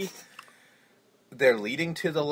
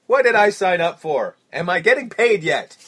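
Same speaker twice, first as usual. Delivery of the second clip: loud, high bewildered whine; confused singer; 4 semitones higher, 10 dB louder than usual. Retold or imitated. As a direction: whine like a lost old rocker.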